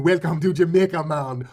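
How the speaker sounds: a light Jamaican lilt, mocking the resort staff; hint of a Jamaican accent. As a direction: imitate a Jamaican greeting tourists, cheery. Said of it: "y'all throw that accent?".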